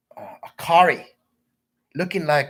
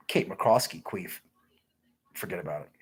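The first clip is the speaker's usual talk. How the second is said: whisper; 6 semitones lower than usual. Real, not acted. Naming a woman to chat, secret whisper.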